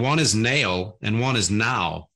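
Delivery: slow Philadelphia "nail" and "now", nearly alike; South Jersey-Philadelphia accent. Shown as a demonstration. Host explaining his two words, South Jersey-Philadelphia accent. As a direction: let "nail" and "now" merge, Philadelphia style. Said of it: "and they sound exactly the same".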